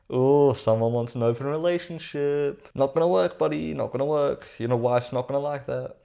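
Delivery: playful, knowing mockery; mock teasing. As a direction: tease a buddy who's hoping in vain. Teasing the man texting.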